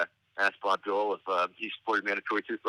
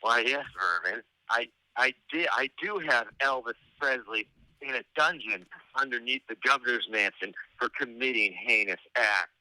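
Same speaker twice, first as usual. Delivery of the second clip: lightly put-on sleazy politician; a hint of oily confiding, pitched a little up; Lamar Alexander; 3 semitones higher than usual. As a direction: imitate a sleazy politician's private admission.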